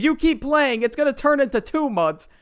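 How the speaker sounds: screaming mom. Retold or imitated. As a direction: yell it like an angry mother. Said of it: "and then she screams".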